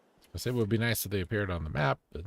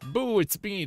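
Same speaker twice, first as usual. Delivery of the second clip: spooky boo; 11 semitones higher than usual. Pretend. Jump scare on character.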